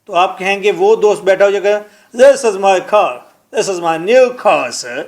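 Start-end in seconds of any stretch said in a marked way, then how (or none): 2.2-5.0 slow, heavy rustic Punjabi English; mock a villager's clumsy English. A mild imitation of a villager showing off his new car in Punjabi-accented English. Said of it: "اس کی پروننسیشن، sounds".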